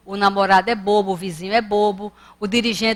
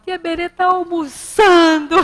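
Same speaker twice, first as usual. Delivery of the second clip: higher, louder, half-laughing imitation of a sobbing little girl; mock child crying; 7 semitones higher, 5 dB louder than usual. Retelling the girl crying at lunch, mock sobbing child voice. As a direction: whine it through a laugh like a crying kid. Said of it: "aí ela chorando".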